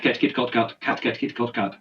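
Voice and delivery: "cat, kit, cot, cut" clipped and crisp on the k; each vowel in "cat, kit, cot, cut" shaped between k and t; consonant drill. Shown as a demonstration. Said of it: "So you can go".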